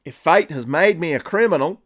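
mock Australian declaration; bad Australian accent. Villain declaring his turn to crime, badly faked Australian accent. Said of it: "best Australian accent you're ever gonna listen to".

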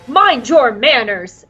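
lightly acted prim scolding, drawn out; mock reprimand, stretched slowly. Droid telling off R two, scolding.

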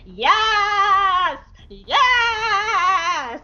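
high excited cheer; gleeful whoop; excited yes. Retold or imitated. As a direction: cheer like a big happy kid. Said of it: "Wrecker is like".

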